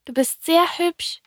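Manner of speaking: high-pitched little prince voice. A narrator's reading. Little prince compliments the fox, in a high voice. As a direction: voice the little prince, well above your own pitch.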